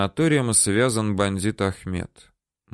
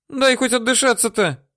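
woman begging him to loosen the grip; choking woman begging; 14 semitones higher than usual. Acted. Woman gasping.

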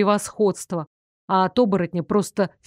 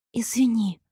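croaked; 3 dB quieter than usual. A narrator's reading. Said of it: "прохрипела".

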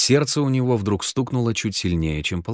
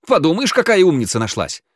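sarcastic retort; 8 semitones higher, 4 dB louder than usual. A narrator's reading. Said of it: "огрызнулся Генка".

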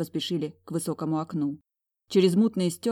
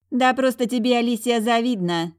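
higher, louder, scornful jab; contemptuous snort; 6 semitones higher, 6 dB louder than usual. Acted. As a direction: spit out the scorn. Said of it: "презрительно фыркнула Юола".

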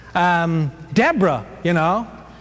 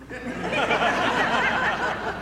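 a high, soft amused laugh; high chuckle; 13 semitones higher, 5 dB quieter than usual. Real, not acted. Preacher laughing at Jael's line, high soft chuckle. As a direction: laugh softly at the grim joke.

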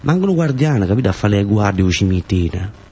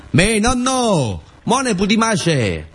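put-on much higher, slow little child's voice; 12 semitones higher, much slower than usual. Grandchild pleading with grandfather on the boat, high childish voice. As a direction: ask like a small kid tugging at grandpa.

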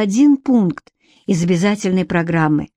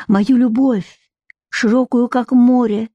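higher, measured start of a verse; poetry recitation; 4 semitones higher than usual. A narrator's reading. Nikita tries verses on Vika, declaiming. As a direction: begin declaiming love poetry. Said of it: "его декламацию".

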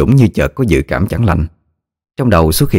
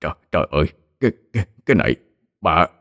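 horrified stammer; 5 dB quieter, much faster than usual. A narrator's reading. Old man sees the corpse, horrified and stammering. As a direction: gasp it out, terrified. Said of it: "khiếp vía kinh hãi".

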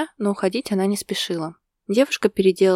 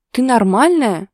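higher and much louder disbelief; shocked outburst; 6 semitones higher, 9 dB louder, slower than usual. Acted. Husband shocked by wife's dark joke, outburst. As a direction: burst out in disbelief.

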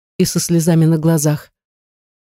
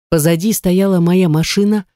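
ordinary delivery

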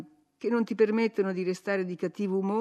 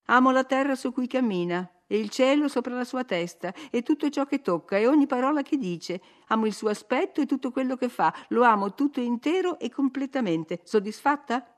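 higher, fervent declaration of love; young woman swearing her love to her nurse, higher and ardent; passionate Catherine; 5 semitones higher, 4 dB louder than usual. A narrator's reading. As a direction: pour out every word of adoration. Catherine voiced by reader.

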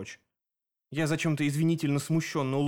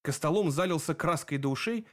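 plain reading voice

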